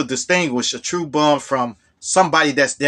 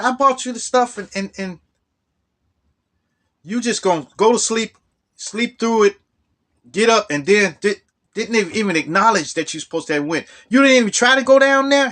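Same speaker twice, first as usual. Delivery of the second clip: higher, rising exasperated telling-off; incredulous scolding; 7 semitones higher than usual. Retold or imitated. James scolding Phil for skipping the interview, higher incredulous scolding. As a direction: lay into him in disbelief.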